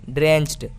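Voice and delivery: ड्रेंच्ड pronounced "drencht"; final D as T. Shown as a demonstration. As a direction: finish ड्रेंच्ड on an unvoiced ट. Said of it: "डी को हम ट पढ़ेंगे". (ड्रेंच्ड के अंत में साफ़ ट की आवाज़)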